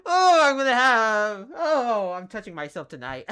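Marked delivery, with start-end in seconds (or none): 0.0-2.1 laughing. Real, not acted. Still laughing, loud.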